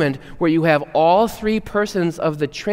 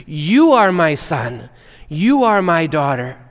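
slow, louder, beaming announcement; proud declaration; 4 dB louder, slower than usual. Retold or imitated. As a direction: call it out like a proud father. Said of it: "beam down and light on you and say".

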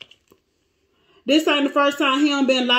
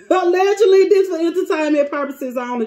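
higher, quick disclaimer; emphatic disclaimer; 5 semitones higher, 4 dB louder, faster than usual. Real, not acted. Reader covering herself to viewers, emphatic disclaimer. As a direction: start high and loud, then rattle it off. Disclaimer hastily added to the reading.

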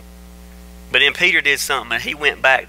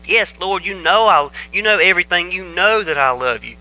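higher, insistent protest; hurt, emphatic reassurance in a raised voice; 5 semitones higher than usual. Acted. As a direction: plead to be believed, stung. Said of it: "Peter was hurt that Jesus asked the question a third time".

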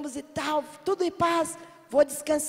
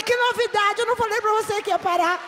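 loud, higher told-you-so; triumphant retort; 7 semitones higher, 5 dB louder than usual. Retold or imitated. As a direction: crow it back proudly. Triumphant reply to André. (respondendo alto e triunfante ao André)

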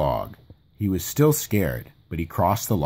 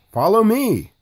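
bright loud call, higher up; 12 semitones higher, 5 dB louder than usual. A narrator's reading. Tigger calls the friends across, loud and high. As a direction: Tigger calls everyone to follow across the log, loud and bouncy. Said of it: "Tigger called".

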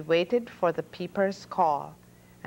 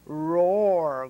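loud lion roar, low; growling lion; 3 semitones lower, 5 dB louder than usual. A narrator's reading. Lion waking in the chaos, loud roar. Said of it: "growled the lion".

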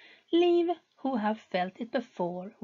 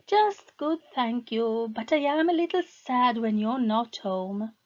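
higher, strained wife voice; lightly voiced anxious wife; nervous young wife; 4 semitones higher, 3 dB louder than usual. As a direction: sound eager to please. Wife's nervous reply.

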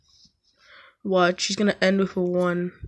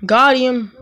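excited; 3 semitones higher, 3 dB louder than usual. Real, not acted. Gamer celebrating a score, triumphant. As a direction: punch it out in triumph. Scoring in game, louder retake.

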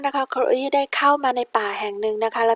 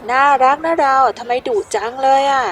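coaxing; 4 dB louder than usual. Acted. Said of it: "talking to the dog".

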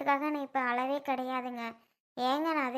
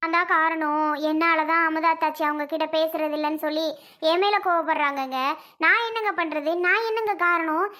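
louder, pleading, voice rising at the end; upset protest; 4 dB louder than usual. Acted. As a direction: protest your innocence, getting louder. Wife tearfully protests innocence. (கணவனிடம் மனைவி வேதனையுடன் உரக்கப் புலம்புகிறாள்)

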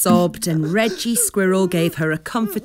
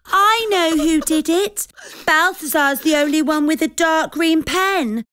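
high, loud indignant accusation; angry tone; 11 semitones higher, 3 dB louder than usual. A narrator's reading. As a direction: point the finger, fired up. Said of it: "Zephyr said in an angry tone".

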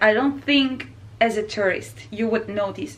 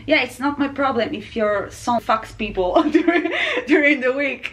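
laughing while quoting; 4 semitones higher than usual. Retold or imitated. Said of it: "And she said".

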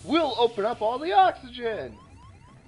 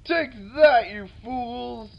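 villain taunt; 2 semitones higher, 4 dB louder than usual. Pretend.

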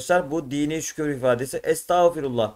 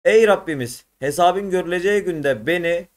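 reading the prayer aloud; 2 semitones higher than usual. Shown as a demonstration. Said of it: "Yukarıda anlamı verilen dua".

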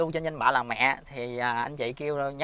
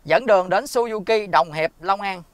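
clear voice command; 5 semitones higher, 6 dB louder than usual. Real, not acted. Dictating a command to Google Assistant.

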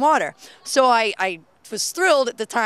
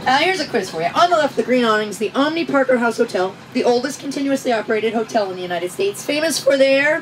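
tour guide spiel; 5 dB louder than usual. Pretend. Live tour commentary.

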